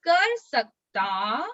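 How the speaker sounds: slow, stretched words with lifted endings; slowly, for repeating. Shown as a demonstration. Teacher leads children repeating the memory verse, slowly. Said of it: "मैं धीरे धीरे बोलूंगी".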